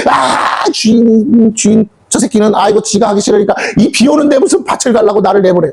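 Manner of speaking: whiny, complaining farmhand voice; mock the lazy servant's whining; grumbling servant. Servant complains to master about field work, whiny. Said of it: "하는 말이".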